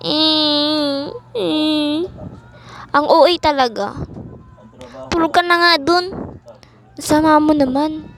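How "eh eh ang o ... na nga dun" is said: usual speaking voice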